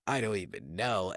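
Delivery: low, quiet winded reply; mock exhausted, softly sighed out; wheezing. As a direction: imitate being spent, sigh into a soft low mumble. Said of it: "breathing like wheezing".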